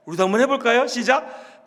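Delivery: ordinary talk, nothing marked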